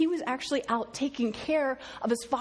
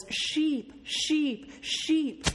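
higher sing-song call of sheep; calling the flock; 4 semitones higher, much slower than usual. Retold or imitated. Shepherdess calling her sheep in from the pasture, lilting high call. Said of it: "she simply says".

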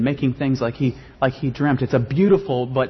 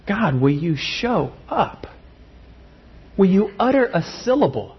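voiced lament; 4 semitones higher than usual. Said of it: "crying out in chorus".

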